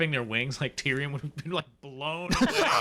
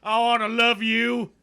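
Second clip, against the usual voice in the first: mock romance; 7 semitones higher, 5 dB louder than usual. Tyrion to dragons, mock romance.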